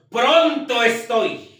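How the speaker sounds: "pronto estoy"를 천천히, 한 단어씩 힘주어; "pronto"를 높게 강조하고 "estoy"는 천천히 늘여서; stressed slow quote. Shown as a demonstration. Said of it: "dice el apóstol".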